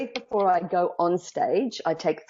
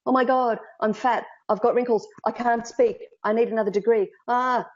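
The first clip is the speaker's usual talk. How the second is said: higher, fretful mock self-criticism of a woman; a touch of a woman panicking at the mirror, voiced higher; mock panicked woman; 5 semitones higher than usual. Woman at the mirror each morning, higher mock panic. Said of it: "they look at themselves and go".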